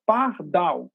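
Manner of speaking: "pardal" in two separate syllables, par-dal; demonstrating "pardal" as two distinct beats; split into syllables. Shown as a demonstration. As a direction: sound out "pardal" one syllable at a time. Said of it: "e duas sílabas".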